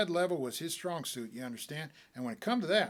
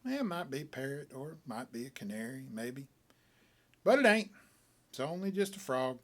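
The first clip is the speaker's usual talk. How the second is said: indifferent. Acted. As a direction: shrug it off like it's nothing. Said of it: "sort of indifferent like".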